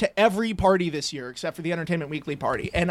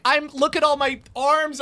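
mock tantrum; 6 semitones higher than usual. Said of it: "a full-on ridiculous tantrum".

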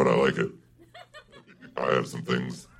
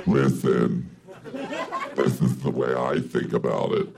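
feminine devil voice. Acted. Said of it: "it's a fun voice to do".

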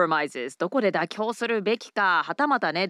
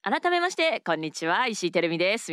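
announcer opener. Shown as a demonstration. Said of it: "Then I say".

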